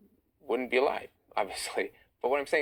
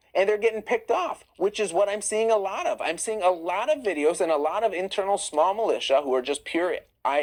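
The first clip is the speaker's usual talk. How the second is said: rising, louder heated rant; fired up; 7 semitones higher, 4 dB louder than usual. Real, not acted. Viewer asks about Iran, answering with loud heated energy. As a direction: push the argument hard, higher and louder.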